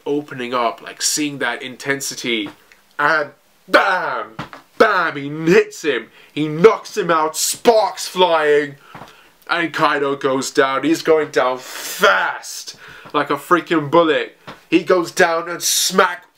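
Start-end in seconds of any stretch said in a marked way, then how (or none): 3.0-8.8 higher-pitched, punched-out fight commentary; excited play-by-play. Real, not acted. Narrator calling Kaido's knockout blow for viewers, excited play-by-play. 10.8-16.2 stretched key words, rising excitement; excited play-by-play. Real, not acted. Narrator calling Kaido's plunge to the ground, excited play-by-play.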